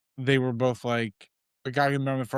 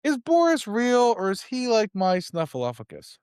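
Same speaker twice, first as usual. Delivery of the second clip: incredulous; 7 semitones higher, 3 dB louder than usual. Retold or imitated. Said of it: "'Cause I'm like".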